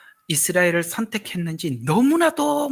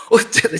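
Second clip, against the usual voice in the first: 어찌하여 said higher and louder, falling; emphatic protest; 8 semitones higher, 8 dB louder than usual. Shown as a demonstration. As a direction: demand it: 어찌하여, pressed hard. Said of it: "이 말들을 그냥 지나치지 말라는 거예요". (어찌하여를 높고 크게 힘주어)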